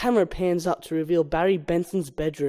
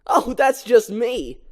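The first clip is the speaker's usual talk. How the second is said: Barry voiced; 4 semitones higher, slower than usual. Barry to mother.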